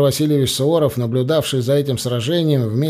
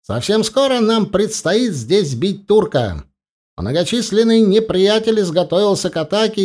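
raised, forceful speech to the troops; roaring rallying speech; 5 semitones higher than usual. Acted. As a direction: rouse the soldiers for battle. General addresses the troops.

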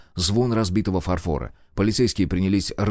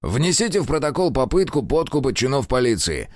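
clipped out; 6 semitones higher than usual. Acted. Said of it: "отчеканил Терентьев".

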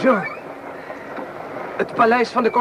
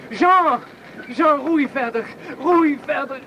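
urgent call; 4 semitones higher, slower than usual. Acted. Urging rower in panic.

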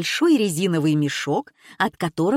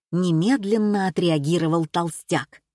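ordinary delivery

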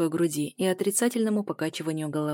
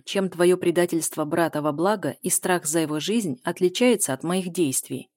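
ordinary delivery

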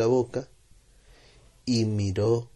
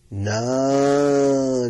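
put-on a short firm no in a light child's voice; a light touch of a child saying no; lightly voiced boy; 3 semitones higher, 5 dB louder than usual. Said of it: "le dijo José Luis".

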